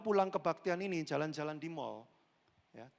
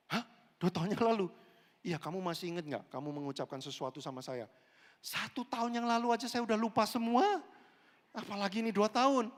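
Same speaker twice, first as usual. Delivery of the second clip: loud bewildered reply; 3 semitones higher, 5 dB louder than usual. Acted. Keyboard player loudly forgetting.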